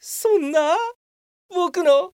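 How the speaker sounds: despairing wail. Acted. Worker wails as his picture-book dream collapses. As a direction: mourn the ruined dream, building up.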